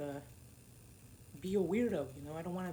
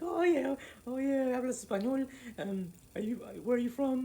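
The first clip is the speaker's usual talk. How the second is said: eager chatter; 5 semitones higher, 3 dB louder than usual. Retold or imitated.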